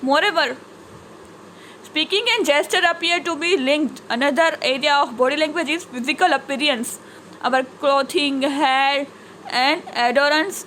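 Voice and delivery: slow, measured textbook reading; reading aloud. Acted. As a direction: read it out slowly for the class. Reads English textbook sentences aloud. (ધીમેથી પાઠ વાંચન)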